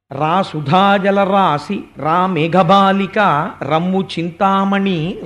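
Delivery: slow, drawn-out calling of names; అందమైన పిలుపు. Acted. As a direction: call each name lovingly, stretching every syllable. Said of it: "ఎంత అందంగా పిలుస్తారో". (అందంగా, సాగదీస్తూ పిలవడం)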